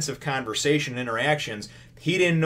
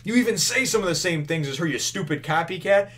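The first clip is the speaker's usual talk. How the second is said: higher-pitched retold insult; mock bickering; 6 semitones higher than usual. Swordsman accuses sergeant of copying, mock bickering. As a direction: bicker back in a raised voice. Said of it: "they're bitching at each other".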